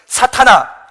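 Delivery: loud, high rebuke from a quoted master; 꾸짖음. Acted. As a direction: call out sternly to reprimand the disciple. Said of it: "베드로를 꾸짖어 이르시되". (크게 꾸짖듯 부르기)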